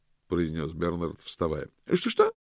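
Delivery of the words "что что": high surprised repeat; startled. A narrator's reading. Loretta, startled by Bernard's words, high. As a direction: blurt it out, startled.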